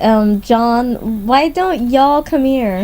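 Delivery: put-on slow, drawn-out hillbilly accent. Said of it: "in some odd hillbilly accent".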